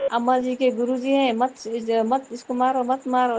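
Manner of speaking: lightly voiced children teasing grandma about her guru; teasing kids. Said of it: "ऐसे बोल के खिंचाते हैं".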